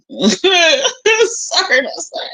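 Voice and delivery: high-pitched, laughing through the words. Real, not acted. Gossiping to viewers about P J, laughing. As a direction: repeat it through giggles. Laughing while repeating her jibe.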